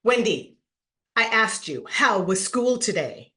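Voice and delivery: firm, level, no-nonsense repeat; the mom voice that means you're in trouble; stern mom. Retold or imitated. Mom catching her kid skipping school, stern and firm. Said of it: "tone of voice changed".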